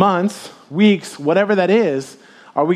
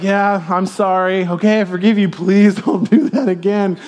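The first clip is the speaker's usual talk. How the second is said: laughing apology; 2 semitones higher than usual. Retold or imitated. Voiced apology and forgiveness.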